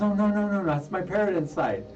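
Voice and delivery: retold protest. Retold neighbour protesting to cops.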